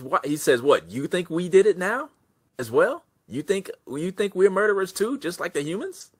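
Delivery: protest, hurt and outraged; offended goblin. Acted. Goblin outraged that Shig calls them murderers, high and indignant.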